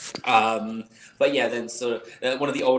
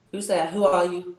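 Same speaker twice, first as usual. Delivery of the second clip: higher, startled questions; 7 semitones higher, 4 dB louder than usual. Acted. Calithia behind the door, startled and wary. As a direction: jump at the knock. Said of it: "and then you hear".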